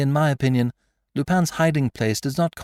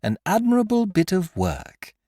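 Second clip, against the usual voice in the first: higher, teasing repeat of his words; mocking echo; 8 semitones higher than usual. A narrator's reading. Isidore mocking the magistrate's praise, teasing echo. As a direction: throw the praise back at him. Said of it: "echoed Isidore".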